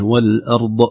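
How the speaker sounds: والأرض ending in an echoing bounce on the ض; wrong, bounced ض. Shown as a demonstration. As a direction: show the faulty qalqala on الأرض. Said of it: "هذا قلقل".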